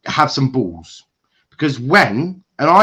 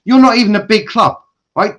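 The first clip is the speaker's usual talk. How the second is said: furious rant; 7 semitones higher, 4 dB louder, faster than usual. Real, not acted. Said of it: "Because I am absolutely raging".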